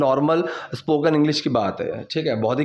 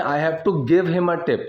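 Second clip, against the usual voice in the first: slow model sentence; much slower than usual. Shown as a demonstration. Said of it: "teacher models formal version slowly".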